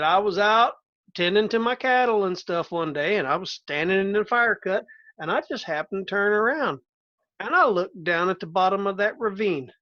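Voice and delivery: a lightly voiced old Southern farmer; mild Southern accent. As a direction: tell it like a plainspoken Southern cattleman. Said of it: "when you did a Southern accent".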